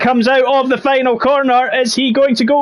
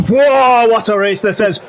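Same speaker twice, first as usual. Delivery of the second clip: mock commentator exclamation; 2 semitones higher than usual. Commentator copying old pundits on air, mock whoa. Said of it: "And we are going".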